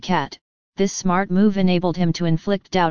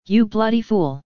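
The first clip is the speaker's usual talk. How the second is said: angry insult; 3 semitones higher than usual. A narrator's reading. Former inmate cursing the journalist, angry outburst. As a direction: spit the insult out.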